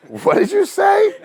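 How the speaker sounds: very high, loud, drawn-out squawk of astonishment; mock disbelief. Agent reacting to the client's lightning claim, mock disbelief. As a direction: squeal it slowly in exaggerated shock.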